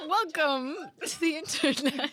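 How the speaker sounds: high, giggly automated greeting; hammed-up machine greeter, cracking up. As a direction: attempt a recorded welcome through laughter. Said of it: "make it, like, automated".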